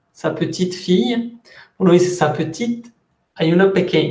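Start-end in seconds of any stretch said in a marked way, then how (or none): 0.1-1.4 "sa petite fille" with "petite" set apart; slight pause before fille. Shown as a demonstration. Teacher showing how little daughter sounds, "petite" slightly separated from "fille". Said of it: "una pequeña pausa muy corta". 2.1-2.9 "Sa petite" left rising before a short pause; weight on "petite", then stop briefly; pause after petite. Shown as a demonstration. Teacher showing where the pause falls, "petite" rising. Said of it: "una pequeña pausa muy corta".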